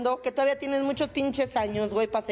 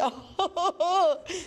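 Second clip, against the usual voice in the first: hammed-up high fake crying; mock movie sobbing; 5 semitones higher than usual. Imitating Marga López's pretty crying, hammed-up sobs. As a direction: wail like an old melodrama star. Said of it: "¿Cómo lloraba re bonito?".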